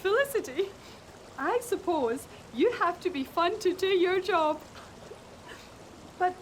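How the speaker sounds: mock reading of a letter. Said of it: "It says".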